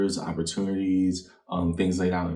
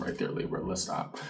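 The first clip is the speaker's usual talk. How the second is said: whispering; 8 dB quieter than usual. Real, not acted. Sudden unvoiced aside.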